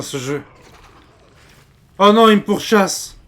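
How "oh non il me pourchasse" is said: high, loud frightened cry; panicked. Real, not acted. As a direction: cry out while being chased. Being chased by monster.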